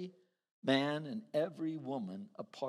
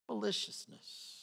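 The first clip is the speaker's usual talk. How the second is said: whispered word; 5 semitones higher, 7 dB quieter than usual. Shown as a demonstration. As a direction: breathe "Maliciousness" as a hushed whisper.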